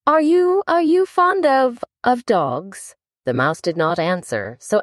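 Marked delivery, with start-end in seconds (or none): 0.1-3.0 high, rushed, flustered question; hurried, flustered. A narrator's reading. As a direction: blurt it out to change the subject. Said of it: "in a great hurry to change the subject".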